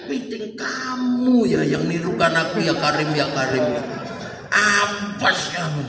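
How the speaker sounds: mock-angry pilgrim's scolding; hammed-up threat to the man behind. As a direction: drag out the warning. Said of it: "Sambil marah".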